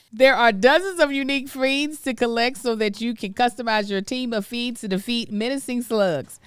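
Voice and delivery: upbeat, emphatic sponsor read; podcast ad read. Acted. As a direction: sell the game to listeners. Reads a sponsor ad.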